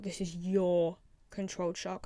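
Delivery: "your" stretched out and weighted; stress on YOUR. Shown as a demonstration. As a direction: lean on "your" to point at the owner. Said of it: "she's emphasizing that this is".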